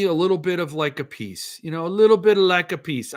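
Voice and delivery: accidental, light Italian-accent lilt. Real, not acted. Host stumbling into it while describing stress relief, light Italian accent. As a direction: slip briefly into an Italian accent. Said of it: "I went into an Italian accent".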